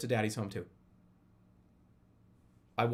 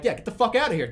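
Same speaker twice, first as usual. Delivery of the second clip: mock yell; 6 semitones higher, 6 dB louder than usual. Shooing dart guy out.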